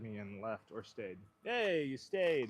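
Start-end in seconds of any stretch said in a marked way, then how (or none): 1.4-2.5 excited. Real, not acted. Viewers stayed.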